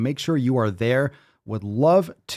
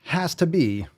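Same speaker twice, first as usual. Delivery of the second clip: drawn-out winner announcement; 3 semitones higher, much slower than usual. Pretend.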